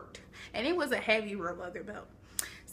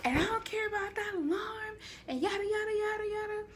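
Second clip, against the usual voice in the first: high mock mom voice; mom scolding; 11 semitones higher than usual. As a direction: ham up the mom who won't stop. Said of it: "She's like".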